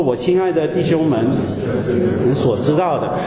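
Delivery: measured, solemn reading of the verse; scripture reading. Acted. Preacher leading the church in reading, solemn and measured. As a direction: read it out for the congregation, steady and solemn. Reads scripture aloud together.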